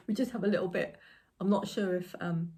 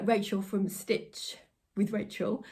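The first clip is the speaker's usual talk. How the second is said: normal talking voice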